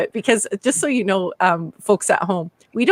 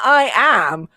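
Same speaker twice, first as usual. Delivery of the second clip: "I am" as two distinct words; stress on AM; 2 semitones higher, 3 dB louder than usual. Shown as a demonstration. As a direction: lean pointedly on AM in "I am". Contrasts full form with contraction.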